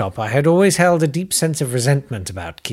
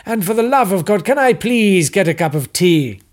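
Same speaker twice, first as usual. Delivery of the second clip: much higher, louder desperate scientist; shouting captive; 8 semitones higher, 6 dB louder than usual. Acted. Captive astrophysicist yells at his captors, shrill and desperate. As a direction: shout through the door, fed up.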